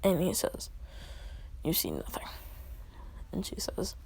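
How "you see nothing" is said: lightly voiced low, soft man; a low, understated character reply; terse male character. Man telling the woman she saw nothing, low and terse.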